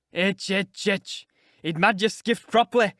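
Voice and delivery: loud, crackly cackling taunt; mocking old man. A narrator's reading. Joseph jeering at Linton, crackly mocking voice. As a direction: jeer like a spiteful old servant.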